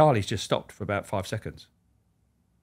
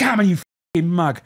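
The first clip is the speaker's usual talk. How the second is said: loud mock bark of a trainer; shouting at him; 6 semitones higher, 5 dB louder than usual. Trainer shouting at Charlie during circuits, loud and rough. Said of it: "and shouting".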